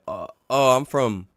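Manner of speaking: stammering nervous laugh; evasive fumbling. Retold or imitated. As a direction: squirm and laugh it off. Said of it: "He said".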